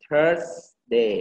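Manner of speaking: "Thursday" with a held s, then day; THURSSS... day; emphasised S. Shown as a demonstration. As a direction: stretch the S in "Thursday". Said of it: "เน้นเสียง S".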